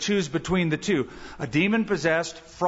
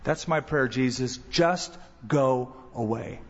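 mock prayer; 5 semitones lower than usual. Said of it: "prayer ... that he would go away".

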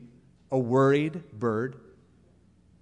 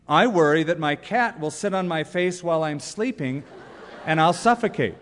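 laughing while reading. Real, not acted. Reading a funny worry aloud.

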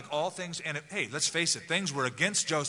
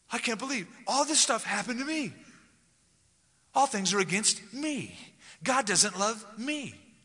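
higher, slow sulky lament; self-pity; 7 semitones higher than usual. Acted. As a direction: whine that everything is against you. Acted self-pitying complaint.

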